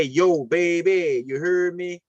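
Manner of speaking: slow, drawn-out New Orleans greeting; New Orleans accent. Retold or imitated. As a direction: stretch it like a New Orleans local. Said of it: "in the New Orleans, they say".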